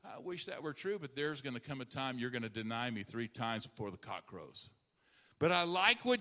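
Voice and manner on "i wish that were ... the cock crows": softer, lower, sorrowful warning; tender quiet rebuke; gentle Jesus. Acted. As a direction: break the hard truth gently to Peter. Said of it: "Jesus told him".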